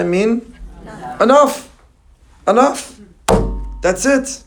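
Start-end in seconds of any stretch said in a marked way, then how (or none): 1.2-4.4 high, loud cry of Enough; exclaimed enough. Acted. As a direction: call out Enough like a final command. God declaring dai, enough.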